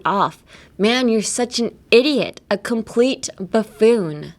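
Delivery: careful slow model reading; slow and clear. Shown as a demonstration. Teacher reading a dialogue slowly for students to copy. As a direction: read the dialogue slowly, word by word. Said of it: "I'm gonna say this, uh, slowly".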